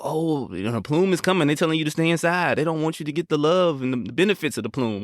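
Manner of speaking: high, hammed-up misinformation pitch; mock conspiracy voice. Mocking disinformation spreaders to cohost, high hammed-up pitch. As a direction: play a hyped conspiracy peddler. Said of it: "disinformation out there telling people".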